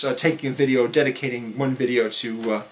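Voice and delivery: running out of air mid-sentence; out of breath. Real, not acted. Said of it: "I'm out of breath".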